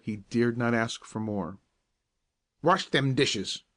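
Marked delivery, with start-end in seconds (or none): 2.6-3.6 slow, stern captain's command; gruff order. A narrator's reading. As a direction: bark the order slowly, like a harsh boss. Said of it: "ordered the captain".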